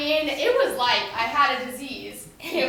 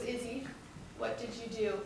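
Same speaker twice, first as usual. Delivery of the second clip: ominous mom; 3 semitones lower, 11 dB quieter than usual. Retold or imitated. Mom's final quiet warning.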